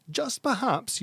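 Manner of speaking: perhaps lifted high and drawn out; a sly, high perhaps; stressed perhaps. Acted. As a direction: lean hard on perhaps, rising. Queen's pointed repeat.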